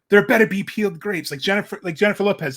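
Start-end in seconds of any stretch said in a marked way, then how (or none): 0.1-1.3 higher, louder spoiled diva; diva demand. Retold or imitated. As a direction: demand it like a pampered star. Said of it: "big-singer diva-esque".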